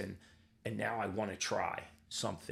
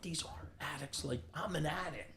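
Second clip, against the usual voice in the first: higher-pitched retold incredulous thought; mock-incredulous inner voice, higher; retold disbelief; 7 semitones higher than usual. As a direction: replay your own scoffing disbelief, pitched up. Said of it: "And I'm like".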